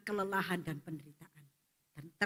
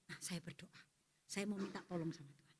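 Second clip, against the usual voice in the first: tired; 4 semitones lower, 14 dB quieter than usual. Acted. Tired man decides to pray.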